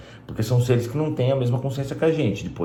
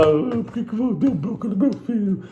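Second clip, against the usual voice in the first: higher, slow mock whine of an angry dad; mock father protesting to teacher, higher slow whine; 9 semitones higher than usual. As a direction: parody the doting father complaining. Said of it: "vai lá".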